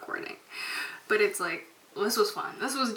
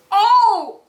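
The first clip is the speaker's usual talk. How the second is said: startling boo; 10 semitones higher, 13 dB louder than usual. Pretend. Jump scare repeat.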